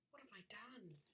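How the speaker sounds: soft guilty whisper. Acted. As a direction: whisper it in dismay. Poppy's guilty thought.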